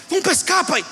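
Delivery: retold kid nagging his dad; pestering child. Boy asks his father on Monday, pestering.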